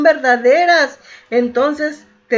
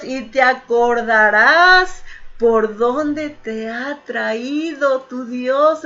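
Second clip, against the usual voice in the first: 「Y te acordarás」を一語ずつゆっくり強調して読み直す; slow emphatic reread; slower than usual. Shown as a demonstration. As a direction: drag out each word of the verse slowly for weight. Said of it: "Dice la palabra de Dios".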